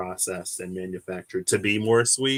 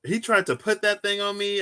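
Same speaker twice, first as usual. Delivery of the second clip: raised pitch, giggly; excited retelling; 11 semitones higher than usual. Retold or imitated. Retelling the mantis again, high and excited. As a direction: tell it still half squealing.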